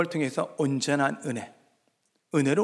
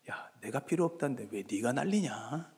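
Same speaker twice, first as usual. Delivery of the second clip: much softer, lower voice of God; God's dismissive reply; 4 semitones lower, 10 dB quieter than usual. Acted. God answering the sulking believer, low and soft dismissive reply. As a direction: quietly brush off the fuss. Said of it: "하나님이 이렇게 대답하는 거죠".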